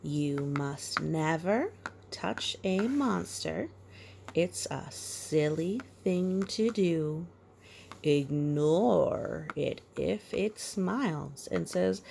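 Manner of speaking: measured storybook rhyme; reading to a child. A narrator's reading. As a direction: read the rhyme gently to a little one. Reads rhyme.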